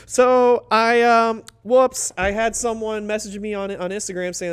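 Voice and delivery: put-on high, loud goofy kid-brother voice; mimicking a giddy younger brother; imitating little brother. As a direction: ham up the little brother's excitement.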